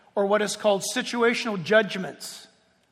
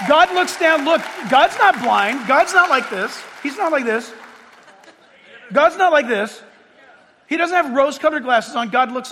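loud, insistent pulpit voice; emphatic preaching; 5 semitones higher, 6 dB louder than usual. Acted. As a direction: hammer the point into the congregation.

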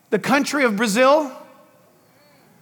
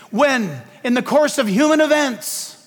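"course" given deliberate emphasis; stress on "course"; 2 semitones higher than usual. Real, not acted. Preacher quoting to the congregation, stressing "course". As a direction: lean on the word "course". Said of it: "I stress the word course".

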